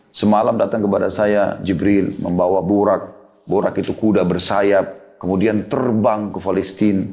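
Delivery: slow, low-key plain recounting; lightly acted, artless account; guileless storytelling. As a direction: recount it simply and unhurriedly, as if innocent. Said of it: "dengan polosnya cerita".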